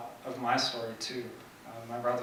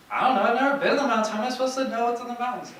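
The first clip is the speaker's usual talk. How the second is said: lightly voiced flustered boy, higher and fast; boy's protest; 12 semitones higher, 10 dB louder, faster than usual. Acting out boy's exasperated reply.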